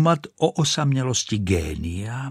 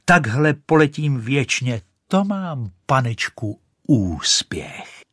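high, loud triumphant cry; joyful cry; 4 semitones higher, 3 dB louder, slower than usual. Acted. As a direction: shout your triumph in flight. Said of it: "křičela". (vysoký hlasitý jásot)

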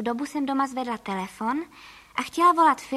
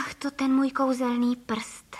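slow, understated dismay; dismayed exclamation; slower than usual. Acted. Caller realising her magic finger did it, mild dismay. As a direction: sigh it out with mild alarm. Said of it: "vykřikla jsem".

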